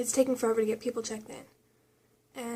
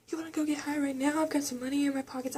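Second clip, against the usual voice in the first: lightly voiced druggie, pitched higher; high-as-a-kite patient; 3 semitones higher, faster than usual. Patient offering to go get high, imitated stoned voice. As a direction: imitate someone high making an eager offer. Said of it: "high as a kite".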